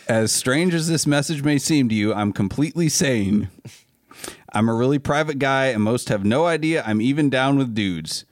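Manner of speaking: put-on email read in a light Southern accent. Host reading a fan's email to friends, light Southern accent. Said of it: "reading this in a Southern accent".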